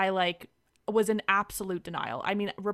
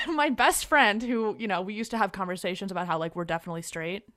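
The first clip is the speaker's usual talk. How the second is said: laughing; 8 dB louder than usual. Real, not acted. Laughs while telling the story.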